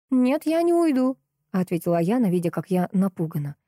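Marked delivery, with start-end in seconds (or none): 0.1-1.2 defiant refusal. Acted. Yana defies Maxim.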